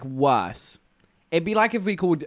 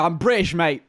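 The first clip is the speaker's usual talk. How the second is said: louder, higher, smug English bloke voice; cocky English bloke; 4 semitones higher, 4 dB louder than usual. Retold or imitated. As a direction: play a proud Englishman claiming it all. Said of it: "they go".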